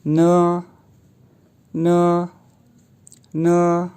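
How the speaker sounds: न said short with a neutral vowel; न, clean n and a quick vowel; न like the Mandarin syllable ne; pinyin ne. Shown as a demonstration. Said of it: "तो यूँ pronounce किए जाएंगे".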